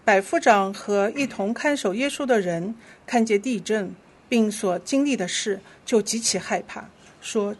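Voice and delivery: measured, clearly phrased Bible reading; scripture reading. Real, not acted. Leader reads Scripture to the congregation, measured scripture reading. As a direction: lead the congregation through the verse.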